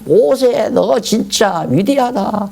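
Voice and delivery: slow, drawn-out hammed-up praise; mock praise. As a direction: cheer Moses in awe. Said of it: "모세를 찬양하고 난리였을 거예요". (과장된 찬사)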